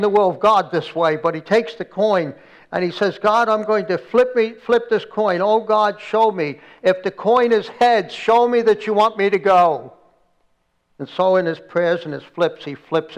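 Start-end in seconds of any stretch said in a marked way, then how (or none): 3.2-9.9 retold plea to God, slightly raised; lightly acted desperate praying; desperate prayer. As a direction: implore God, in a storyteller's retelling. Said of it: "desperation and simple faith".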